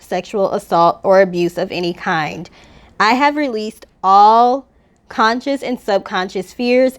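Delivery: steady, earnest mantra reading; spoken affirmation. Acted. Reads her healing mantra aloud.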